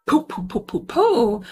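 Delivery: quick puffed "poo" gunshots; imitated gunfire. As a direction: mimic a burst of shots with the mouth. Imitating gunshots while retelling.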